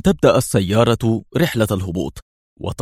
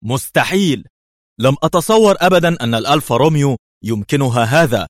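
high, stunned disbelief; dumbfounded; 5 semitones higher, 4 dB louder than usual. A narrator's reading. Colleague answering in disbelief, high and stunned. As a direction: still reeling from the sight. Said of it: "كالمشدوه".

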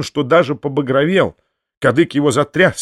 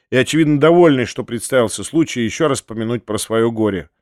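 ordinary delivery, nothing marked

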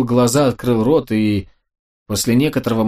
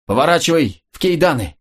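shout; 4 semitones higher than usual. Acted. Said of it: "крикнул Ковальский".

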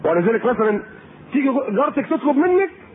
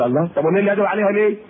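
quick reasoning reply; faster than usual. Retold or imitated. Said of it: "قول".

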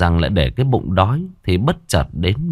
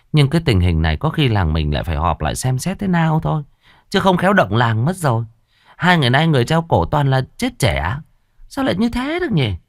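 lightly voiced village gossips, higher; gossiping villagers; 4 semitones higher than usual. Villagers gossip about Thổ's hanging, higher chattering voices. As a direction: chatter like nosy neighbours, rising higher. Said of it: "nghe người ta bàn tán".

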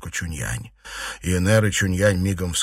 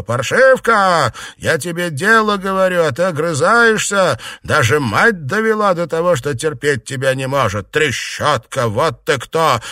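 put-on old aunt yelling at her niece, furious and loud; furious old woman shouting; 6 semitones higher, 5 dB louder than usual. A narrator's reading. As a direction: scream abuse at the girl as you beat her. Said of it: "и закричала".

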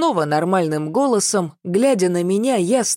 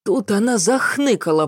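ordinary delivery

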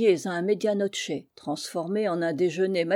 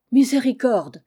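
pitiful exclamation, louder; innkeeper's loud lament; piteous cry; 4 semitones higher, 8 dB louder than usual. A narrator's reading. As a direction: wail it like a frightened innkeeper. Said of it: "s'écria d'un air piteux".

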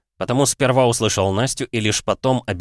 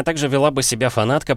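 ordinary delivery

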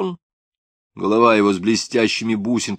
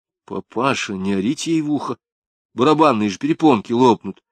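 stern scolding; 3 semitones higher than usual. Acted. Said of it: "строго сказала Клавдия".

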